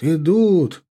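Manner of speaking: rising excited call. A narrator's reading. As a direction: call out the news eagerly. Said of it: "пронеслось по шеренгам егерей".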